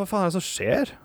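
high, startled cry of confusion; baffled outburst. Retold or imitated. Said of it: "Og så sier jeg". (forvirret, høyt utbrudd)

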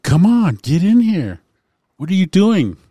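high, loud imitation of a demanding woman; retold insistent yell. Lady urging the dude into the bathroom, mock yell. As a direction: call out the order, mimicking her. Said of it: "And she said".

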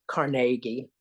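"Carnegie" stressed on the middle syllable, car-NAY-gie; variant pronunciation. Real, not acted. Correcting the name of the college, "Carnegie" said car-NAY-gie. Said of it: "still haven't learned how to say".

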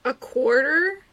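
incredulous question. Real, not acted. Incredulous at the small sum.

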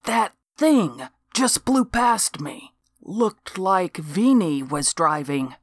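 a touch of a gruff lawman; lightly voiced cop. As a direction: ask it with mild disbelief. Boots recounts, exasperated.

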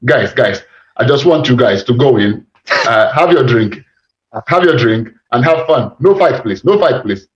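bouncer imitated in a rough Iranian or Eastern European accent; mock Iranian-accented bouncer. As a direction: put on a loose Iranian accent. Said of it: "I think it's Iranian, or if it's not Iranian".

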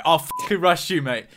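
lightly mocked macho line; low, half-hearted tough-guy imitation. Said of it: "using that as a macho line".

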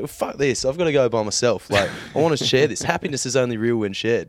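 mock-heated complaint; retold annoyance. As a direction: replay your grumbling protest with a touch of anger. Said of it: "being angry 'cause I was like".

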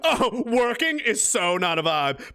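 slow, laughing mock of her phrase. Streamer laughing as he mocks her phrase, slow and sneering. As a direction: drag it out to ridicule her.

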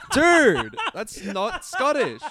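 slow, laughing through the words; can't stop laughing at it; slow words with real laughter. Real, not acted. Laughing at the bad accent.

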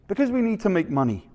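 dad rattling off an answer in mock Canadian; Canadian accent. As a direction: hurry it out in an attempted Canadian accent. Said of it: "my best Canadian accent".

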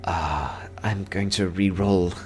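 slow elf voice after a whispered sigh; deliberating elf. Acted. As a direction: weigh the move slowly as the elf. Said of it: "The elf has two ones".

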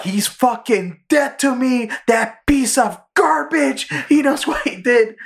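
high, slow cartoon duck outrage; Daffy Duck voice. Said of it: "Daffy's like".

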